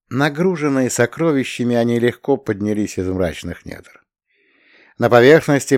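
ordinary delivery

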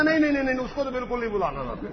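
high frantic mock refusal; mock panicked refusal. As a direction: ape him begging no. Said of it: "کہتا".

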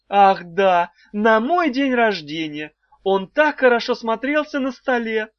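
put-on a high old wife catching herself; wife remembering. A narrator's reading. Wife recalling her birthday feast, high and eager. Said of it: "спохватилась Далила Петровна".

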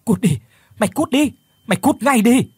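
Phước screams at the demon as he slashes the air; furious scream. Acted. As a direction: scream while swinging a knife. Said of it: "anh vừa thét lên".

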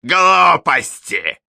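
"Глупости" mocked in a high, slow, loud prissy voice; high mincing mimicry. A narrator's reading. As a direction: drag "Глупости" out shrill and affected. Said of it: "передразнил ... высоким жеманным голосом".

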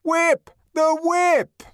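high, loud chanted cries; crowd cries. A narrator's reading. Crowd crying out for the whip, loud excited cries. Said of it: "cries of".

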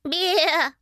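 high, wavering baa; high-pitched sheep imitation; sheep's bleat. A narrator's reading. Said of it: "заблеяла она".

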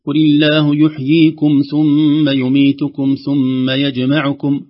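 slow, loud recitation pausing within the list; slow careful recitation. Shown as a demonstration. Teacher reciting the verse slowly and loudly. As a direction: stretch each word out. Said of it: "فنقول مثلًا".

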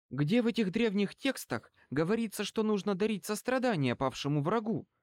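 high-pitched, mildly scornful challenge; full of contempt. A narrator's reading. Woman challenges Bane's knowledge of ancient texts, with contempt. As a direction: raise the pitch into a disdainful question. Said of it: "полным презрения голосом".

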